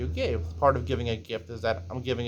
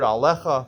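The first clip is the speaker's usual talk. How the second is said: alecha with a firm, slightly louder push on the middle syllable; stress on alecha; 4 dB louder than usual. Shown as a demonstration. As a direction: lean on alecha. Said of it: "we stress".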